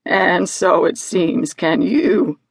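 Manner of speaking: slow talking-sheep reply; Mimi. Acted. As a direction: draw the words out deliberately. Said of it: "Mimi replied".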